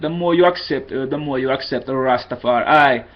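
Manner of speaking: lightly imitated Jamaican accent. Shown as a demonstration. Tutor showing how people copy accents, mild Jamaican accent. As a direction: put on a bit of Rastafari Jamaican. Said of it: "some people copy a Jamaican accent".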